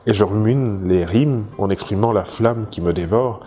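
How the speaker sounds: measured poetry reading with pauses between lines; poem recitation. Acted. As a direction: recite it line by line, lightly declaimed. Reads out a second poem. (récitation de poème, posée, vers par vers)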